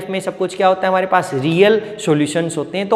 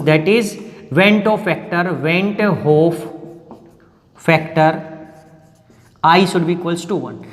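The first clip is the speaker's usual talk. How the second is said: very slow, phrase by phrase; slow dictation; 3 semitones lower, much slower than usual. Shown as a demonstration. Teacher dictating the first limitation to students, slow. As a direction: spell out each word for notes.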